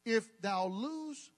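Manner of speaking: slow, archaic scripture read; mock King James reading. Shown as a demonstration. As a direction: intone it like old scripture. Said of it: "this is for those who need a thou and a thee".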